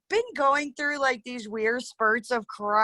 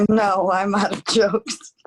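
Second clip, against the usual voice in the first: speaking through tears; words breaking with tears; crying; 3 semitones lower, 4 dB louder than usual. Real, not acted. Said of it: "my mom's crying right now".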